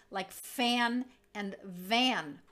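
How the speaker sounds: fan with F, van with V, slowly; contrast F and V. Shown as a demonstration. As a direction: say fan and van clearly apart. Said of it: "For example".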